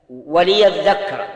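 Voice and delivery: loud, drawn-out "وليذكر" as wa-li-yadhdhakkara; slow right down and show the i after l in "وليذكر"; clearly shown kasra. Shown as a demonstration. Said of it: "لا بد أن تبين أن اللام مكسورة".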